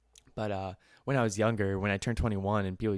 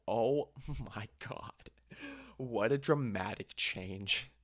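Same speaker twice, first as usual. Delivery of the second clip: slow, airy whispered gasp; mock-dramatic relief; 4 dB quieter, slower than usual. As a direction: draw it out in hushed amazement. Retelling relief at kind hosts.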